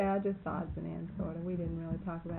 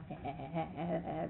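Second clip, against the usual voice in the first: mimicked stuttering chuckle; imitated laugh; 5 dB quieter than usual. Marvin stands in the door laughing, an imitated chuckle. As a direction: imitate his run of ha-ha laughter. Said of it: "the way he laughs".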